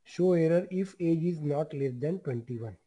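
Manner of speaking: each word spaced out for students to type; slow dictation. Shown as a demonstration. Teacher dictating to the class, slow and deliberate.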